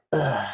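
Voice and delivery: low, soft "ugh"; groan of dread. Retold or imitated. Speaker voicing the letdown after agreeing, quiet groan. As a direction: let out a small deflated groan. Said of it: "now it's like".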